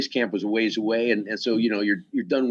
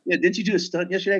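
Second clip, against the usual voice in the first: Anthony Hopkins; 9 semitones higher than usual. Retold or imitated. Impersonating Anthony Hopkins asking.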